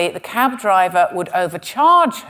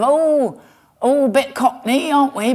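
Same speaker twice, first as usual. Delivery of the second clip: mock cockney; 5 semitones higher than usual. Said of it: "I imagine they do it in that kind of".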